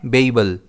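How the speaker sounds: बेबल said as BAY-bel, stress on the first B; careful teacher pronunciation; pronunciation demo. Shown as a demonstration. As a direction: model बेबल clearly for the class. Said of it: "इस word को हम pronounce करते हैं".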